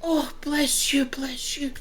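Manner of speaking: hushed breathy whisper of thanks; villager whispering thanks. Acted. Frightened villager woman whispering thanks to the party. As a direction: whisper your relief to the stranger.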